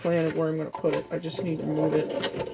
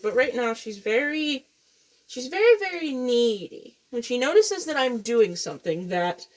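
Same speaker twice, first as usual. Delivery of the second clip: ordinary talk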